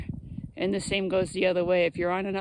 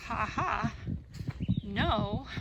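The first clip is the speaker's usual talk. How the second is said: mild mock chuckle, drawn-out and soft; soft, slow retold laughing reply; imitating a mocking laugh; 5 dB quieter, slower than usual. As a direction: imitate him laughing off the question, softly. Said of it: "as he laughs".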